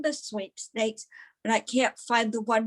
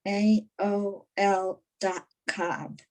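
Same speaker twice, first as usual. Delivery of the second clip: slow, letter by letter; repeating while writing; slower than usual. Retold or imitated. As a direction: say it slowly as you write it. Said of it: "read it back to me".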